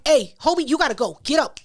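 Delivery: loud, firm order to leave. Retold or imitated. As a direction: tell him to leave, firm but controlled. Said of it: "Start snapping".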